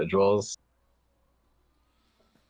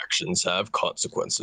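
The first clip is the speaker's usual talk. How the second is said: slow, husky whispered announcer voice; mock trailer tagline. Friend joins the fake trailer, slow hushed announcer voice. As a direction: drop the tagline slowly, nearly all breath.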